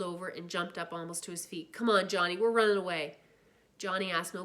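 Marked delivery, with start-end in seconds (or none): 1.7-3.2 urgent call. Acted. Urgently calling friend to run.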